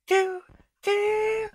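very high squeaky sung chipmunk voice. Pretend. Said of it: "Alvin and the Chipmunks in a chipmunk voice".

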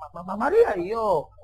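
acted tongue-tied suitor; stuttering in mock fright; nervous stammer. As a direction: stumble over the first syllable.

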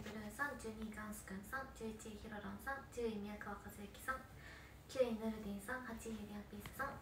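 quiet, steady ranking readout; softly reading the fan ranking aloud; list reading. Acted. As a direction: read the names off softly.

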